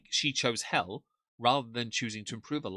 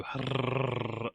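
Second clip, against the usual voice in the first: failed rolled R. Shown as a demonstration. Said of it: "I can't naturally go".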